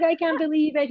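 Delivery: high-pitched, choked-up disbelief; imitating the husband crying on the phone; emotional disbelief. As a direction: voice him near tears with joy. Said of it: "He started crying on the phone".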